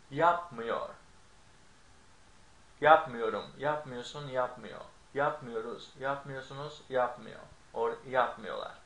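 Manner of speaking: yapmıyorum with the stress on yap, before the negative m. Shown as a demonstration. Teacher demonstrating negative verb stress, yap stressed. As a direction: hit the first syllable yap of each form. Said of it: "you stress the syllable that is before the negative suffix".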